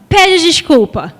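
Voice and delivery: slow, drawn-out mock order; ordem imitada. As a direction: imitate a bossy adult demanding an apology. Adulto mandando pedir desculpa. (ordem arrastada e mandona, imitada)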